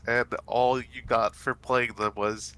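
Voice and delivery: congested, stuffed-up voice; stuffy nose. Real, not acted. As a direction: talk through a blocked nose. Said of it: "my nose is really congested".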